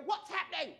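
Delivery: high, panicked little question; bewildered. Retold or imitated. Sinking boy asking his brother, high alarmed question. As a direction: sound lost and alarmed. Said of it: "and just go".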